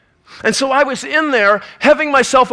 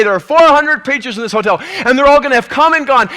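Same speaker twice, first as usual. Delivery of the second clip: pushing the thought harder and louder; the thought presses back, more urgent; insistent thought; 4 semitones higher, 3 dB louder than usual. Retold or imitated. Sleepless preacher, the thought growing insistent and louder. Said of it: "but it won't go away".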